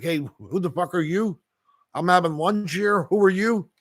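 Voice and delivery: mock-indignant possum guarding its lunch; cheeky possum. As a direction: play a possum caught mid-meal with attitude. Possum voiced in the story.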